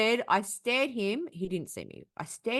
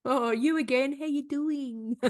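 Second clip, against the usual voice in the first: mock friendly; 6 semitones higher, slower than usual. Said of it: "make friends at the bus stop".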